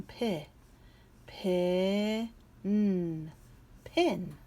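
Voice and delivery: segment P then blend pin; sounded out. Shown as a demonstration. Teacher sounding out a word for kids. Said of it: "Now this is the same".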